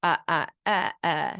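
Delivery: "Uh, uh, uh" vowels standing in for words; vowels only. Retold or imitated. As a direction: read like a child with no consonants. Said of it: "it'll be".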